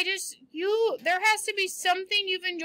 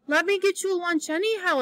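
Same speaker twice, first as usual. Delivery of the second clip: imploring; 3 semitones higher, faster than usual. Acted. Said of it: "implored Anne".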